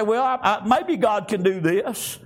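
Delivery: stumbling, noncommittal mock praying; nonchalant doubter. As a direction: imitate a halfhearted, unsure prayer. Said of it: "pray just nonchalantly and say".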